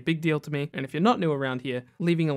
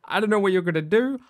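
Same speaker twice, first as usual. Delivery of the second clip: louder, higher mock protest; retold reluctance; 5 semitones higher, 5 dB louder than usual. Retelling June turning down Bizarro's rescue, mock reluctant. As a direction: play up someone backing out of being rescued. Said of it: "she's like".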